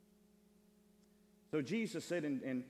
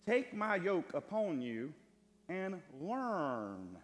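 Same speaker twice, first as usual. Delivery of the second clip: loud, slow, raised preaching voice; emphatic scripture reading; 5 semitones higher, 5 dB louder, much slower than usual. Acted. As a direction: proclaim the verse, stretching the words. Reads the verse emphatically.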